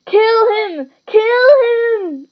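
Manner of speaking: high furious yell; villain yelling kill commands. A narrator's reading. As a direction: scream the order twice. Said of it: "Voldemort's yells of".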